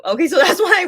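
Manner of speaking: giggling through the words, a bit embarrassed; laughing at herself. Real, not acted. Fan admitting her cheesy love, laughing at herself. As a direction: laugh it off after saying something cheesy.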